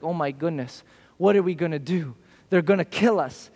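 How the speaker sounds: a servant's worried aside, said low; mock freak-out. Servant frets over the enemy, low and hushed. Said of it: "Elijah's servant freaks out".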